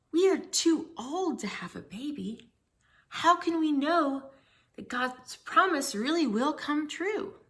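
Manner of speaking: a mild touch of disbelief, asked slowly; lightly voiced shocked Zechariah; shocked old man. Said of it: "Zechariah was shocked".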